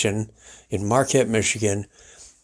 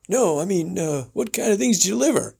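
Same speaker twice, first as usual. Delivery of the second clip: radio host; 7 semitones higher, faster than usual. Retold or imitated. Host imitated welcoming guest, high showman voice. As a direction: roll it out like a ranch host. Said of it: "talk about something".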